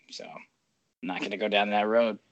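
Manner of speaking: whispered, dropping away; whispered aside. Real, not acted. Host decides not to tell the chirp, whispered aside. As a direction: mutter it away to yourself in a whisper. Trails off, declining.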